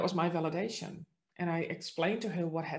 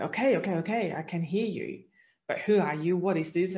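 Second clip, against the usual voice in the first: flustered; 5 dB louder than usual. Retold or imitated. Overwhelmed, hearing a voice.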